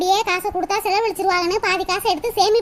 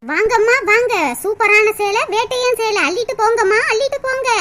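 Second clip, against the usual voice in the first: louder shop crier calling customers; singsong street hawker; 3 dB louder than usual. Acted. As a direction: belt out the sale like a hawker. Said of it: "announcement பண்ணிட்டு போறாங்க".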